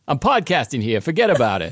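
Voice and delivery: lightly voiced wise guy; a hint of New York tough guy. Podcast host signing off, mild tough-guy voice. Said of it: "I sound really tough".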